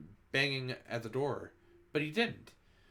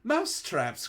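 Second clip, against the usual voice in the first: loud high cry of alarm; shrill witch chorus crying out; witches crying out; 7 semitones higher, 5 dB louder than usual. A narrator's reading. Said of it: "cried the witches".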